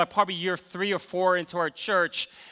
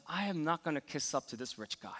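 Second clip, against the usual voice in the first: building from muttered to loud, higher and louder at I got God; mock defiant inner rant; 3 semitones higher, 4 dB louder than usual. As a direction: talk yourself into a huffy, proud stand. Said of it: "I said to myself".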